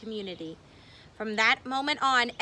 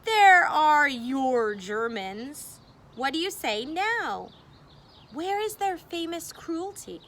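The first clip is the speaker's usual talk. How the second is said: gloating, higher and louder, told-you-so triumph; jubilant; 5 semitones higher, 5 dB louder than usual. Acted. Optimists gloating to the worried townsfolk, jubilant and triumphant. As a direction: crow over the doubters like you've been proven right. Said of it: "The optimists were jubilant".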